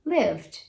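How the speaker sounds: lived in one clipped syllable; correct pronunciation. Shown as a demonstration. Teacher repeating the right form. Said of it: "você vai falar".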